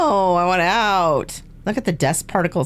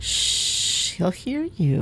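hushed warning whisper; whispering while hiding; 2 semitones higher, 5 dB quieter, much slower than usual. Pretend. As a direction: whisper so he won't hear. Hiding from the stalker.

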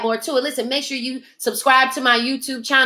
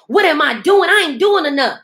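loud, exasperated self-scolding; frustrated outburst at own slacking; frustrated shout; 2 semitones higher, 3 dB louder than usual. Retold or imitated. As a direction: yell at yourself in frustration. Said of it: "I was so frustrated with myself".

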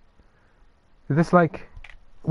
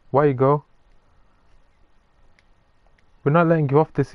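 loud teasing; 6 dB louder than usual. Real, not acted. Teasing a player who is leaving.

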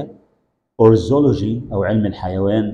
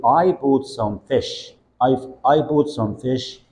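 slow model sentence; much slower than usual. Shown as a demonstration. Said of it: "teacher models slowly".

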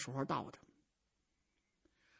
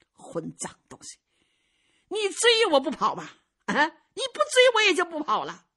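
put-on old swordsman voice; 5 semitones higher, 4 dB louder than usual. Old swordsman figure speaks.

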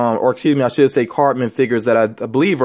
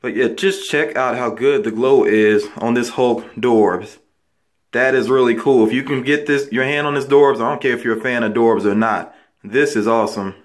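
echoey voice in a tiled bathroom; talking in a small echoing room. Real, not acted. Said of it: "if my voice sounds a little bit echoey, it's because I am in my bathroom".

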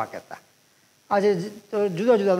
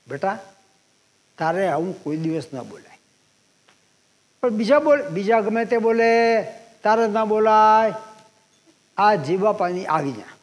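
gentle instruction. Retold or imitated. Uncle gently instructs the boy.

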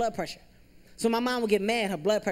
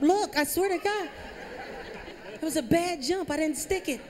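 high, laughing plea that it was just a bad jump; insist, half laughing, that the jump was the problem; mock-earnest gymnast excuse; defensive plea; 9 semitones higher than usual. Pleading excuse, laughing, pitched up.

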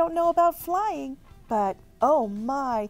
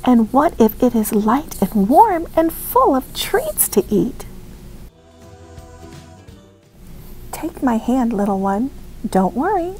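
louder, tender mother urging her chick on; coaxing mommy; 6 dB louder than usual. Acted. Mother coaxing Pip-Pip to be brave, loud and tender. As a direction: reassure a scared little one, gently but out loud.

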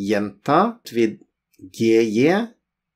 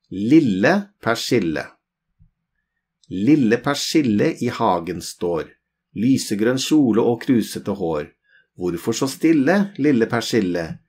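poem recitation. Shown as a demonstration. Teacher to learners, reciting the poem. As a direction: recite Lille persille with a lilting rhythm, lille stressed and falling. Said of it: "There's a small poem here".

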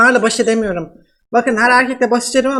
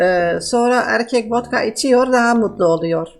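man doing a woman's voice. Pretend. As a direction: fake Russian woman, broken Turkish. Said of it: "nasıl kadın sesi yapıyorum".

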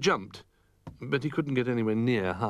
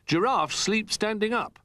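cheerful; 7 semitones higher than usual. Acted. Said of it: "said Jolly cheerfully".

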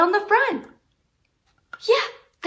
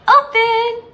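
modelling the word; 7 semitones higher, 10 dB louder than usual. Shown as a demonstration. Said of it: "Say open and we'll open".

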